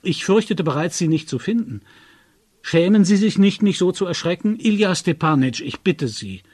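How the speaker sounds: high, loud relieved reproach; relieved scolding. A narrator's reading. Narrator reproaches his friend for the scare, loud.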